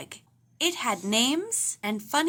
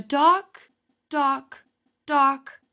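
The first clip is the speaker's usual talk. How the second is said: about to sneeze; 3 semitones higher, 6 dB louder, much slower than usual. A narrator's reading. Papa stammers before sneezing.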